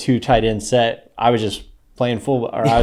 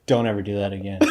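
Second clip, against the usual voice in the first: straight-faced coach; 2 semitones lower, 5 dB quieter, faster than usual. Retold or imitated. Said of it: "Just straight face".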